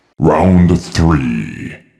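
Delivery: very low, loud, booming put-on deep voice. A quiz host announcing the next round of the game, in a deep voice. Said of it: "[Deep Voice]".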